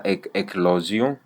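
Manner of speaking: "éclosion" broken after "éc-"; pause au milieu. Shown as a demonstration. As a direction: say "éclosion" with a little pause in the middle. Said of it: "si tu mets une petite pause au milieu". (« éclosion » avec une petite pause au milieu)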